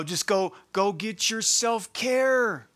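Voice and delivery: sarcastic slow drawl of a cliché; mock self-care advice. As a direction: lightly parody the pop advice.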